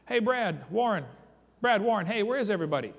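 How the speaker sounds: a survivor calling into the fog for his lost friends, a mild mock yell; retold yell. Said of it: "I yelled back at the top of my lungs".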